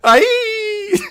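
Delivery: a sharper retake of the yelp; "Aye!" as a shrill pained scream; second-take scream. Acted. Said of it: "let me take that one again".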